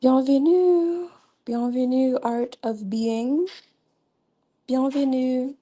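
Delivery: high, drawn-out slow welcome; excited welcome. Real, not acted. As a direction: sing out a slow, high greeting. Welcoming new chat viewers.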